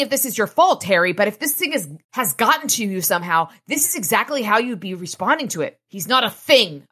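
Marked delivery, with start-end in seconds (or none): 5.9-6.9 louder, angry retort; snarl. Acted. Harry snapping at Elaine about Thomas, a mild snarl. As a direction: bite back in defense of Thomas. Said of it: "I snarled".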